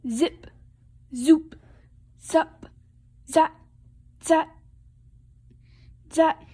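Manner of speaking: short, punchy dressing noises; staccato storybook sound effects; zipper sound words. A narrator's reading. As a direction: pop out each word separately, a little high and loud.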